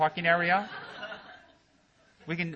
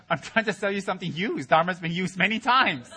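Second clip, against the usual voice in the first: used car salesman; 4 semitones higher, 5 dB louder than usual. Acted. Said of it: "he sounds like a used car salesman".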